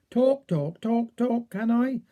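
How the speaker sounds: stuttered repeats on "talk"; stammering. A narrator's reading. Little man struggles to ask about a parrot, stammering. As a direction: stammer "talk" over and over before getting out "can I". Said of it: "and to stammer awful".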